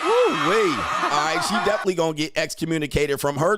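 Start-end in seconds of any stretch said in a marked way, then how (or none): 0.0-0.7 loud high-pitched ooh-wee; excited high yelp. Real, not acted. Host reacting to clip, high whoop. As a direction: whoop in falsetto.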